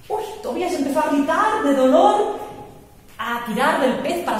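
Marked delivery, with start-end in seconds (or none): 0.1-2.4 higher, louder, building the alarm; a storyteller turning excited as the fish bites, higher and louder; dramatic narration. A narrator's reading. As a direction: raise the stakes for the listeners.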